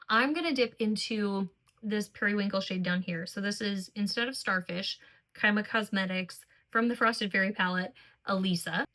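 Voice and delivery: talking while bent forward; hunched over. Real, not acted. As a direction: speak hunched over a mirror. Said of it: "I'm sorry that I'm hunched over weird again".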